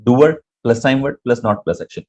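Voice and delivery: "Doer plus time word plus not plus action" laid out slowly, each part separate; slow teacher recital; slow formula recital. Shown as a demonstration. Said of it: "तो कैसे बोलते हैं?".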